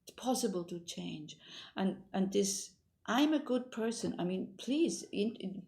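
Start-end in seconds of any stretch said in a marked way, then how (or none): 3.1-4.1 affirmation demo. Shown as a demonstration. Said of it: "put it on your mirror".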